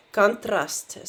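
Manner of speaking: Contrast, first vowel reduced to ah; stress demo. Shown as a demonstration. Teacher models the word for students, clear. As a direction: Contrast with the stress on the last syllable, trast. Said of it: "let me use that as an example".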